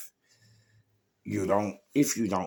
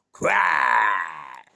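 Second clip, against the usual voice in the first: loud, drawn-out yell; shouted exclamation; 8 dB louder than usual. Real, not acted. Storyteller reliving a club fight, shouted exclamation. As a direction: burst out with one long shouted word.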